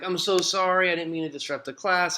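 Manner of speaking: high, hurried apologetic schoolboy; mock apology. Reader imagines Nick caving to teacher, mock rushed apology.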